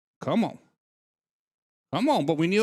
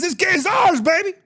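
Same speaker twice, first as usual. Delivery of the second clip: mock swagger shout; 7 semitones higher than usual. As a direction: hype it up like you just kicked the door in. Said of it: "Kick that door and says".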